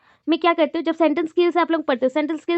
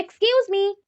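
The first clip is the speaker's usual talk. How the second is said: higher-pitched EXCUSE dipping before "me"; demonstrated polite-request tune on "excuse me"; request, slight fall on EXCUSE; 5 semitones higher, much slower than usual. Shown as a demonstration. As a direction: raise "excuse", let it dip a little. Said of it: "थोड़ा सा fall करते हैं".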